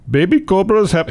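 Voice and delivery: lightly put-on Indian accent. News host quoting an Indian snake trapper, Indian accent. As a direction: start the quote in an Indian accent. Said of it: "if I do an Italian accent".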